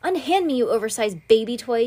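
loud high snarl at a captor. Acted. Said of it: "he snarled".

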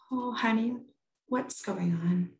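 soft, slowing motherly concern; retold tender mom voice; gentle concern. Mom comforting crying daughter, retold.

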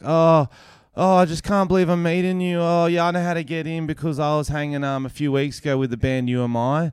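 gushing fan. Retold or imitated. Fan sneaks backstage to meet comedian, mock gushing. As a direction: imitate a pushy fan running on excitedly.

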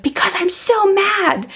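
put-on high, slow little-girl voice, pouting; little daughter's voice. Daughter tells her mom she's mad, in a high, slow child voice. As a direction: imitate your small daughter drawing out her anger.

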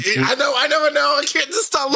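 high-pitched, trying to hold back laughter; helpless apology. Retold or imitated. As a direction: plead through re-enacted giggles. Can't stop laughing at wife's news.

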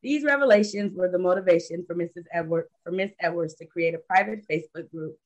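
reading out a guest's biography; measured, formal read-aloud introduction; prepared introduction read. Real, not acted. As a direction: read it like a written tribute.

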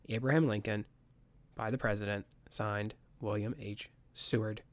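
formal document reading; notary reading. Acted. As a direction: read it out like a legal proclamation. Reading the proclamation text aloud.

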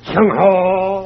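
loud, high war cry; battle cry. Acted. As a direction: bellow it as you charge. Battle cry as they attack.

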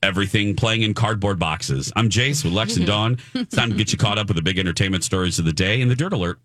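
bright radio host welcome; upbeat morning show intro; cheerful. Acted. Radio hosts' show opener.

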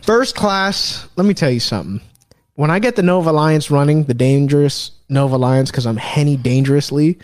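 lightly voiced heel promo; wrestling promo. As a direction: hype yourself like a wrestler. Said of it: "I'm gonna cut a promo right now".

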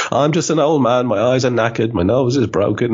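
lightly voiced grumbling old man. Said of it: "that guy from, um, Monty Python".

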